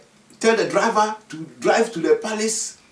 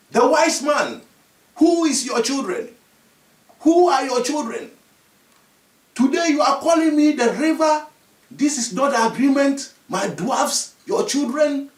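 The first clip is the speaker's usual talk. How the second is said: indignant rebuke; 5 semitones higher than usual. Acted. Dwarf children confront the chief.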